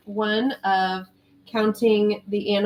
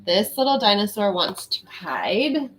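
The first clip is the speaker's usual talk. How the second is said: put-on reading to children. Reads a picture book aloud.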